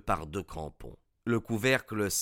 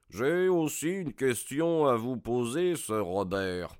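firm, confident, unshaken; most assured voice; 4 semitones higher than usual. A narrator's reading. Holmes stepping toward the armed baronet, fully assured. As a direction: stand your ground and say it calmly. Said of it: "de sa voix la plus assurée".

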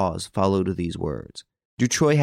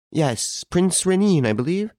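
put-on higher-pitched old lady on the telephone; 10 semitones higher than usual. A narrator's reading. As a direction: answer as an anxious-to-hear old lady, pitched up high. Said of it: "asked the old lady".

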